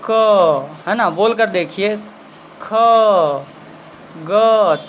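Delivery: slow, deliberate letter sounds, each one set apart; sounding out letters. Shown as a demonstration. Teacher sounding out letters for students to copy, slow and clear. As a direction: say each letter on its own, carefully. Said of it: "आप इसे बोलिए".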